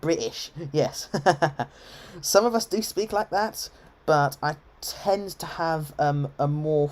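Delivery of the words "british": "British" with the T swallowed in a glottal stop; "British" said Cockney-style as Bri'ish. Shown as a demonstration. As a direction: drop the T in "British" for a catch in the throat. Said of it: "with the glottal stop".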